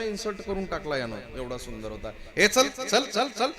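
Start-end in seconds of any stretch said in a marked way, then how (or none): 2.4-3.5 contemptuous dismissal. Acted. Narcissus rudely brushing off nymph.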